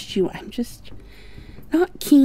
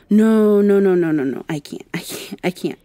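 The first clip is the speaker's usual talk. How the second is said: rising panic, repeated frantic no; panicked refusal; 5 dB louder than usual. Acted. She panics as her proboscis comes out, frantic no. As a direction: blurt it out in a panic, then fade.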